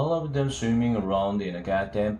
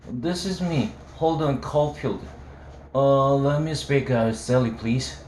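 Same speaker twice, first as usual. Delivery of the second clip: put-on drunk; 3 semitones higher than usual. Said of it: "I was so drunk".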